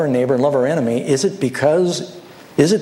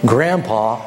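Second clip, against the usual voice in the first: low, slow, calming host; acted soothing plea with unhurried pauses; gentle explaining; 6 semitones lower, slower than usual. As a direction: break hard news gently, pitched low. Host calms the upset guest.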